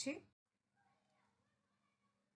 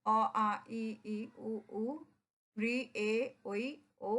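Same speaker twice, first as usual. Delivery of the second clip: reciting vowels. Shown as a demonstration. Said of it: "আরেকবার দেখে নিই".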